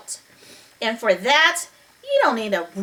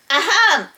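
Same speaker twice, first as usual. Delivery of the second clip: attention-getting throat clearing; 5 semitones higher than usual. Acted.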